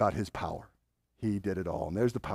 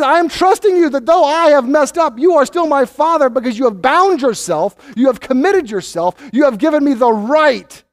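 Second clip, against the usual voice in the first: trusting prayer; 8 semitones higher, 4 dB louder than usual. Retold or imitated. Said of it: "Piety is".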